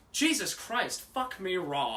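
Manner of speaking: high-pitched exasperated outburst, laugh creeping in; mock exasperation. Retelling acting teacher's outburst at forgetful student, mock exasperated. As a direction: imitate a fed-up teacher blurting it.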